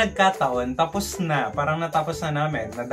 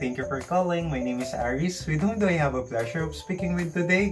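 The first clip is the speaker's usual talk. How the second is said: customer service voice; 2 semitones higher than usual. Retold or imitated. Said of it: "then ako naman".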